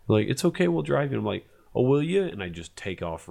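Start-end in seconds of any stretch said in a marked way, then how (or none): 0.3-1.2 high mock-sweet voice; mock sweet insistence. Couple insisting on driving him home, high mock-sweet. 1.8-2.2 high, louder mock-delighted question; sarcastic. Narrator mocking the couple's offer, high sarcastic. Sarcastic reply before running.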